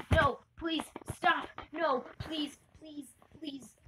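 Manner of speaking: a light imitation of a bully begging, not really crying; whiny pleading, fading out at the end; mock crying plea. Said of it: "almost crying".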